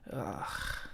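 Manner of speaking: whispered grossed-out groan; disgusted ugh. Acted. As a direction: let out a mild yuck at the slime.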